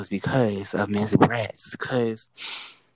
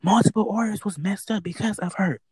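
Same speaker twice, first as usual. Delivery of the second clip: much higher, exasperated friend voice; friend's voice, much higher; imitating friend; 8 semitones higher than usual. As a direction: play the friend's exasperation up high. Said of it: "She's like".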